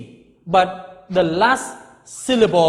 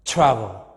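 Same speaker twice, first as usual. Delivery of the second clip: Travel with early stress, falling low; low falling Travel, unstressed last syllable; first syllable stressed; 9 semitones lower than usual. Shown as a demonstration. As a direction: hit the start of Travel, drop the end. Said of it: "there is no stress".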